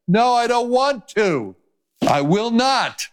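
high-pitched acted refusal; stubborn refusal. Drowning person to the rescuer in the lifeboat, refusing.

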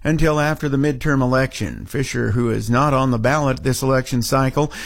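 steady radio newscaster delivery; local news read. Acted. Newsroom anchor reporting on a senator's visit, news read. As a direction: read the story evenly, in measured phrases.

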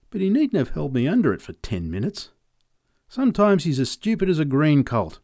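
lightly voiced farmer, grumbling, quickening; sore old farmer. Farmer complaining to the boy about his sore neck, lightly voiced grumble.

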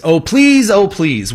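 high, pleading mock plea; mock begging. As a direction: ham up a desperate beg. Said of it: "begged the President of the United States".

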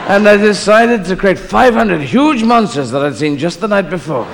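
God recounting creation like a grand actor; James Mason. Acted. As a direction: list each day with stately relish. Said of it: "All right, do the James Mason".

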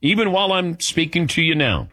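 smooth, scripted sponsor read. Acted. Host pitching car and home insurance to listeners, ad read. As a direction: sell it in measured, emphatic phrases.

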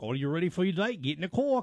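mock New Zealand accent. Imitating parents sending dater off, New Zealand accent. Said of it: "because of the accent".

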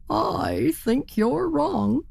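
high, slow, stubborn insistence; stubborn turkey. Acted. Turkey slowly contradicts the wee bird, high and stubborn. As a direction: drag it out, unconvinced.

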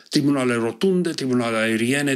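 measured, expressive reading of a ballad; poem recital. Acted. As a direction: read it like a poet at a public reading. Reads his own poems aloud. (recitare expresivă de poezie)

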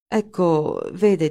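halting "Ecco, vede" that breaks off, trailing away; hesitant. Acted. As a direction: start the excuse, then stall. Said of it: "e si interruppe". (esitante, "Ecco, vede" detto a mezza voce e interrotto)

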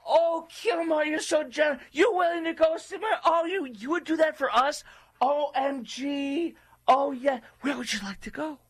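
very high, squealing fake adoration; mock gushing. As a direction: gush in a sarcastic falsetto. Mock gushing at Kilmar's offer.

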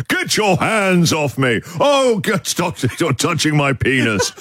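hammed-up cry of a man being arrested; Jack Carlson's outrage. Radio host imitating the arrested con man's high, indignant protest. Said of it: "the con man who was arrested".

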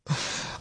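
short, soft laugh of disbelief; brief helpless chuckle; rueful laugh. Real, not acted. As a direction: laugh quietly so as not to cry. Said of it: "I'm laughing 'cause if I don't laugh".

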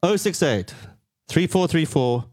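unhurried, spaced-out digits for listeners to note; slow phone-number dictation. Real, not acted. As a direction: read out digit by digit with long pauses.

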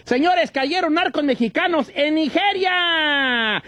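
stretched dramatic news opener; headline announcement. Acted. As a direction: announce the headline, slowly, with weight.

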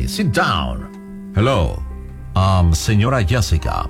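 ordinary talk, nothing marked

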